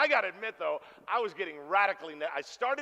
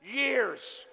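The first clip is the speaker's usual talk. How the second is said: slow emphatic news; 5 semitones higher, slower than usual. Retold or imitated. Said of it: "she goes".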